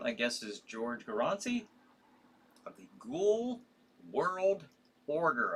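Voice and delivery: slow, careful, deliberate delivery broken into pieces. A host reading out tonight's tv schedule: saying it slowly. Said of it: "I have to say it slow".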